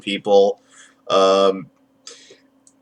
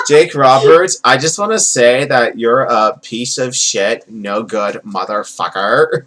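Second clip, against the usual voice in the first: slow mock promo, lightly Valley Girl; drawled, half-committed Valley Girl wrestler; Iron Sheik as Valley Girl; slower than usual. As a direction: drag out the insults with a hint of Valley Girl. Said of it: "I just did Iron Sheik as a Valley Girl".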